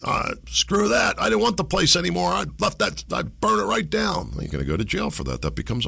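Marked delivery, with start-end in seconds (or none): 0.0-4.3 mock careless arsonist. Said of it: "You say".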